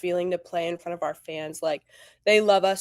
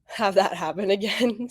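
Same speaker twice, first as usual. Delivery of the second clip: laughing; 2 semitones higher than usual. Real, not acted. Laughs while quoting the team's resolve.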